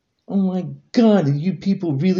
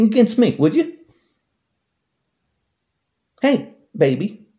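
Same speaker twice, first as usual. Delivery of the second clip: angry taunt; 8 semitones higher than usual. Real, not acted. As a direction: dare him, raising your voice. Taunting a congressman directly.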